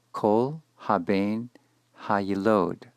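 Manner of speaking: slow careful Hebrew "Kol haben hayilod"; teacher reading Hebrew aloud; Hebrew words. Shown as a demonstration. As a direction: read "Kol haben hayilod" slowly, syllable by syllable. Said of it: "every son that is born".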